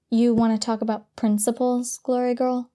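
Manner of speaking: biting sarcastic question; mock her with heavy sarcasm. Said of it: "in the most sarcastic tone she could manage".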